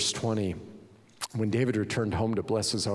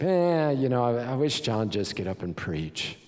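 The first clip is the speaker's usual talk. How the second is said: grudging churchgoer. Acted. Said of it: "People saying".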